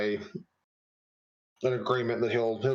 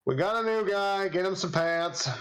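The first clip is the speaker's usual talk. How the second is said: gruff barkeep; 6 semitones higher than usual. Acted. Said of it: "The barkeep looks at you and says".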